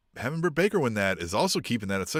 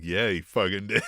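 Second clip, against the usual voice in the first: laughing quote; 4 semitones lower than usual. Retold or imitated. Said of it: "He's like".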